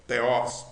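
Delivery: "Teos" as té-ós, both vowels open; all vowels open. Shown as a demonstration. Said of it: "ômicron aberto".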